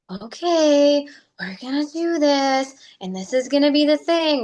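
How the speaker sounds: pep talk. Retold or imitated. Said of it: "talking to yourself like".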